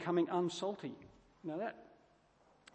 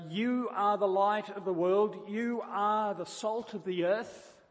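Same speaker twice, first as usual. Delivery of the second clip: YOU stressed, slow and louder; emphatic you; 4 dB louder, slower than usual. Shown as a demonstration. Preacher pressing "You" home to the congregation, emphatic. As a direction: lean hard on the word "You". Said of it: "each sentence begins with an emphatic pronoun".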